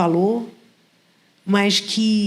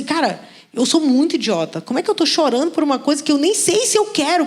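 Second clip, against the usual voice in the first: higher-pitched exasperated inner voice, scolding herself; self-mocking exasperation; 6 semitones higher than usual. Woman mocking herself for crying, exasperated and higher. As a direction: sound fed up with your own foolishness.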